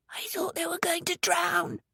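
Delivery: frightened whisper. A narrator's reading. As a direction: hush it out, no voice at all. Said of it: "he whispered".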